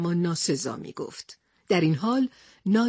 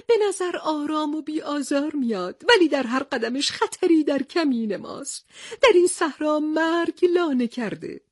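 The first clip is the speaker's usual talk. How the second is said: higher, crying voice of defeat turning ominous; tearful lament; 5 semitones higher than usual. Acted. Defeated captain telling Tarzan of their loss, tearful. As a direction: mourn the defeat, then warn darkly.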